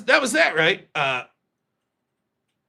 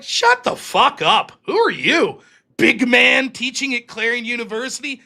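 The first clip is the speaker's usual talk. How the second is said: high, raised-voice retold outburst; acted-out blow-up at a superior; snapping angrily; 6 semitones higher, 4 dB louder than usual. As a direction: tear into him with scornful challenges. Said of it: "And I fucking snapped".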